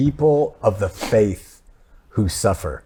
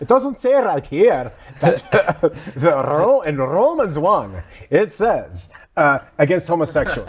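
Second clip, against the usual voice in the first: put-on playful switch to a different preacher accent; mock Bible-quoting accent, breaking into laughter; another put-on accent; 3 semitones higher than usual. Host changing his pastor's accent mid-joke, put-on accent. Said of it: "I'll do another accent".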